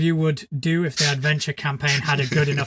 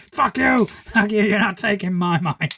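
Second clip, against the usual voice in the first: higher pitched hammed-up yell that fades; mock defiance; 5 semitones higher than usual. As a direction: pretend to fight off a mind thief. Fighting off mind flayers in shop.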